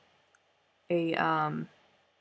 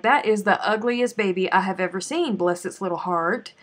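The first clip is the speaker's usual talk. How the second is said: louder, catty insult then a sugary blessing; sweet-tongued insult; 7 dB louder than usual. Retold or imitated. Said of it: "you can say whatever".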